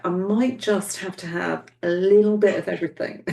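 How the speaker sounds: a playful laugh in the voice; laughing through it. Retold or imitated. Medium relays the daughter's giggly words at the sweets. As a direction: giggle while choosing sweets, lightly.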